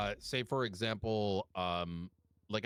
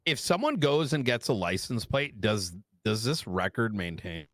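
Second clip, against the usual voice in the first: to someone hard of hearing; 5 dB louder than usual. Real, not acted. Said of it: "That's better".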